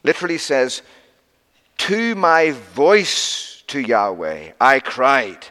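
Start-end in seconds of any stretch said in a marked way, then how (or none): 1.8-5.5 "my voice" drawn out very slowly; emphatic reading. Shown as a demonstration. Preacher showing the emphatic Hebrew word order, slow and weighted. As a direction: read it slowly, leaning on "my voice".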